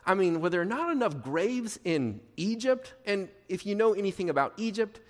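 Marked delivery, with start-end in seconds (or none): 0.0-2.9 mock-incredulous question; lightly acted sarcastic disbelief. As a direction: put on the complainers' sarcasm. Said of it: "You can hear it".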